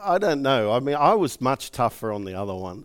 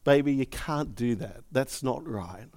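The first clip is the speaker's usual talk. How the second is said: soft, fading gentle correction; 2 semitones lower, 5 dB quieter than usual. Retold or imitated. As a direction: correct her tenderly. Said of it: "I wanna gently say".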